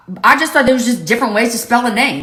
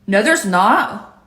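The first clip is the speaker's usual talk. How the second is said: slow and deliberate; much slower than usual. Shown as a demonstration. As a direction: stretch out "No, there's not" very slowly. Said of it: "two different ways to say".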